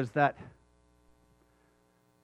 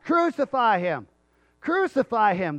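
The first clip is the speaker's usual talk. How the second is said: raised-pitch imitation of a shouting mob; mild crowd scream; 5 semitones higher, 3 dB louder than usual. Crowd demanding a crucifixion, mild mock scream. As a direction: chant it like a mob, half-shouted. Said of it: "they're screaming it out".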